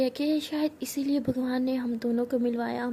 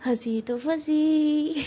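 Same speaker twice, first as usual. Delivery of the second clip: teasing singsong; 3 semitones higher, much slower than usual. Acted. Teasing rhyme, drawn out.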